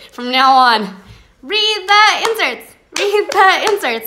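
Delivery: high, sugary sweet voice; trying to sound nicer in a high sweet voice; sweet and nice. Shown as a demonstration. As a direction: say it as nicely as you possibly can. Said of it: "Does that sound nicer?".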